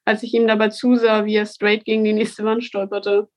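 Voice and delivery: reading her own story aloud; measured, steady book reading; story narration. A narrator's reading. Author reads her book aloud.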